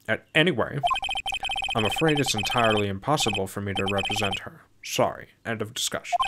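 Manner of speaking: lightly voiced stuffy older lawyer; a hint of an uptight, grand character; uptight prosecutor. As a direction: brush them off with mild fussiness. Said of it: "This dude's about to have this voice".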